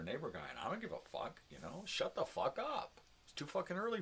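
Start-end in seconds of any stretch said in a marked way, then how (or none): 1.8-4.0 telling him off. Retold or imitated. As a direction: drag it out like a shout at him. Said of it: "He's a guy that works here".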